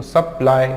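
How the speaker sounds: सप्लाई as सप, then लाई; break between syllables. Shown as a demonstration. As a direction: say सप्लाई in two parts, falling on लाई. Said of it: "इस तरीके से इसको पढ़ना है".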